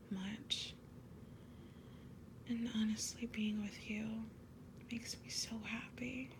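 ASMR whisper. Acted. Girlfriend confessing love to her partner, whispered. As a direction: breathe each word like a secret to a lover.

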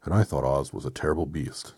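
firm, slightly loud, level-pitched voice; Tin Woodman. Acted. Metal man recalling Oz to friends, firm even voice. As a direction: say it evenly, without the big swoop. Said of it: "said the Tin Woodman".

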